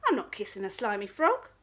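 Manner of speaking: fast, loud, disgusted; a vain princess recoils. Acted. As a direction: spit out your revulsion quickly.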